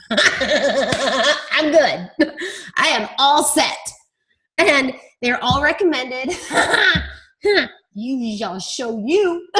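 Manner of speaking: words bubbling through real laughter; laughing. Real, not acted. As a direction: giggle through it, amused at yourself. Laughing about ordering nine books.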